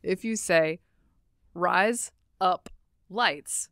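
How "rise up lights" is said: quick Aussie razor blades; Australian accent. Shown as a demonstration. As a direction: say it fast like an Aussie. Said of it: "that is razor blades in an Australian accent".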